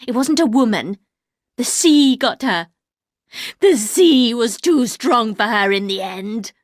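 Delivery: a strained, harsh lament; high harsh voice. Acted. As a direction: housekeeper eulogising her mistress, high and harsh. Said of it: "a high, harsh voice".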